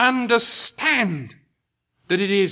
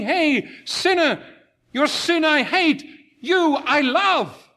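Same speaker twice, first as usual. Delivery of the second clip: higher, tender loving call; 5 semitones higher than usual. Retold or imitated. Jesus calling the sinner, gently loving. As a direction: embrace the sinner with love. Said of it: "He comes to you saying".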